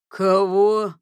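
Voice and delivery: loud, startled yelp; stunned in disbelief; astonished. A narrator's reading. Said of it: "вытаращил глаза Ганс". (изумлённо, громко)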